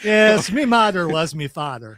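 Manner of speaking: slow stage Irish brogue; Irish accent. Retold or imitated. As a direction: put on a thick Irish accent. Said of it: "best Irish accent you've ever done".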